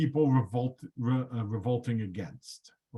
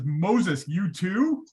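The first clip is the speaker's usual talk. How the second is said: God exasperated; 6 semitones higher, slower than usual. Retold or imitated. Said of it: "God looks back".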